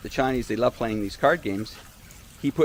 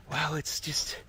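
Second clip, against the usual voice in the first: very soft, secretive imitation; retold whisper; 3 semitones higher, 11 dB quieter, slower than usual. Resort host explaining the secrecy to Alex, retold whisper. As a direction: hesitate in a hushed voice. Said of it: "Why are you whispering?".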